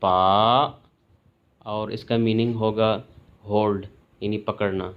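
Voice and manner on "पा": पा dipping then rising; पा meaning hold, third tone; falling-rising third tone. Shown as a demonstration. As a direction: dip पा and bring it back up. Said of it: "third tone जब आएगी".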